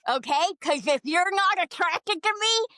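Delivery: playfully furious, half-joking yell; mock outrage. Ranting at Nick about gargoyle phobia, mock angry shout. Mock rant demanding Nick's attraction.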